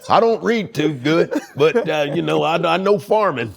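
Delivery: put-on country American bumpkin accent; Billy Bob. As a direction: play a simple Southern American farmer. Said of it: "we know Billy Bob".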